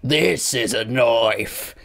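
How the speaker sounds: put-on very slow Australian accent; drawn-out Australian Junkrat impression. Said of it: "Sounds like Junkrat".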